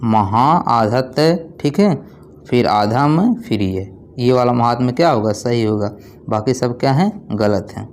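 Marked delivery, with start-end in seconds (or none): 0.0-4.3 महा आधा तय spelled out slowly, part by part; slow spelling out. Shown as a demonstration. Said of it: "इसे लिखा जाएगा".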